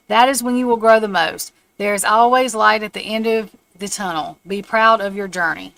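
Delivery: measured, declarative reading; reading an affirmation. Real, not acted. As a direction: read it out firmly, weighting each phrase. Reads out an affirmation.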